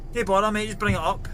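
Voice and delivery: lightly acted customer calling through a buzzer; man on the intercom. Man on buzzer refusing to come down.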